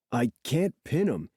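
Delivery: very soft, impressed surfer voice; grudging respect. A narrator's reading. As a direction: admit it softly, with respect. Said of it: "I hear respect, even in Zephyr's voice".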